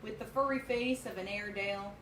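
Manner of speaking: steady poem reading voice; cowboy poetry. Acted. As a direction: read the verse at an even pace. Reads the cowboy poem aloud.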